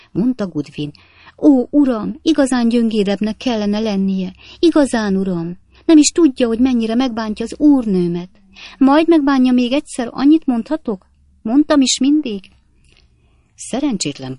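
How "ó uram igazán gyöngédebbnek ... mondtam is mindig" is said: much higher, louder shrill reproach; a busybody maid laying into the master; scolding maid. A narrator's reading. Maid berating the husband for hurting her mistress, high and loud.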